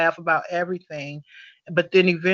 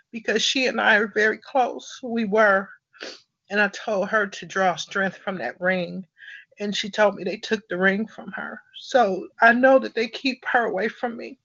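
emotional; 4 semitones higher than usual. Real, not acted. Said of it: "sorry to get emotional".

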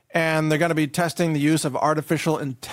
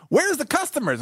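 put-on old lady voice; 12 semitones higher than usual. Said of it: "I think that'd be more like".

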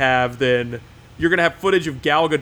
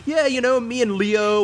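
mock name-dropper; 8 semitones higher than usual. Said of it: "secret superstar who's, like, friends".

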